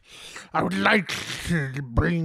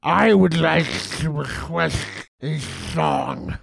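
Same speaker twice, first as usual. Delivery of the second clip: grand poem recital. Pretend. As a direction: declaim each line like a great poem. Host recites his own poem.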